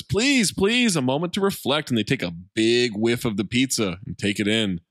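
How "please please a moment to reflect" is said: high, pleading turtle voice; hammed-up reverent plea; Mikey voice. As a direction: beg them to pause for a moment. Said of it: "Mikey says".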